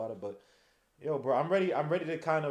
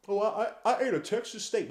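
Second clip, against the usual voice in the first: mocking Fournier; 5 semitones higher than usual. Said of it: "Fournier's been trash".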